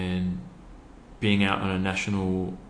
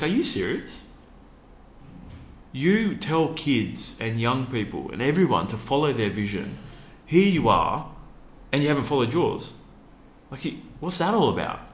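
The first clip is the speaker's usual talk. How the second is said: mock-incredulous, higher-pitched fiancée voice; fiancée's disbelief; 5 semitones higher than usual. Fiancée scolding him for not walking inside, mock disbelief. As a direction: imitate her calling him out in disbelief.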